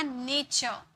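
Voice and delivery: नेचर as "NAY-cho", open ending; half-r pronunciation. Shown as a demonstration. Teacher models the word after the rule, half R. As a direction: say नेचर letting the final R drop away. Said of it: "आधा र में sound आएगा".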